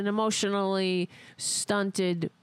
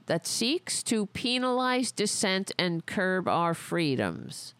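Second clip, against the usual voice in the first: reading aloud. Shown as a demonstration. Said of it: "reading it the way they wrote it".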